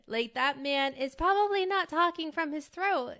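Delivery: big, loud and high, from the belly; a confident thunder god's loud boom. Shown as a demonstration. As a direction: let it boom like a confident god. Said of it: "I don't wanna blow out my mic".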